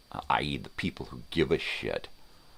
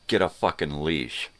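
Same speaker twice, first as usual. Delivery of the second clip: yell out; 3 semitones higher, 5 dB louder than usual. Pretend. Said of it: "I'm gonna yell out".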